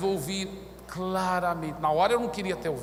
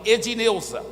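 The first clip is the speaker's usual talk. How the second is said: slightly raised, deliberate proclamation; retold loud address; 3 semitones higher, 3 dB louder than usual. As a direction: announce it firmly so a crowd would hear. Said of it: "Eu falei assim bem alto". (falando bem alto, para todos ouvirem)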